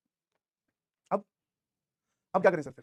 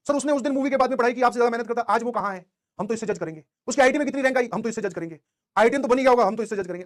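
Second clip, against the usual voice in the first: mock student protest; 3 semitones higher, 6 dB louder than usual. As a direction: argue insistently, imitating a stubborn student. Mimics students' insistent objection. (छात्रों की ज़िद भरी आपत्ति की नकल)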